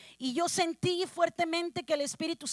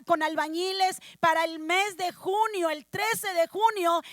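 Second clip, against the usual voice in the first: raised, emphatic testimony; fervent preaching; 3 semitones higher, 3 dB louder than usual. Real, not acted. Preacher telling the church how God opened doors, fervent preaching. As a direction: build the miracle for the congregation.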